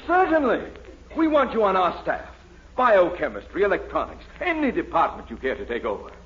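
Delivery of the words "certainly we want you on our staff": emphatic eagerness. Acted. Dean gushing over the genius.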